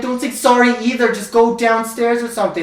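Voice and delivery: bossing her off, half-acted; retold stern order. Telling the girl to stop apologizing, stern mock order.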